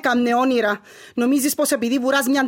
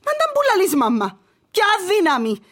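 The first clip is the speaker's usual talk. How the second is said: bitter outburst; 4 semitones higher than usual. Acted. Despairing daughter rejects mother's faith.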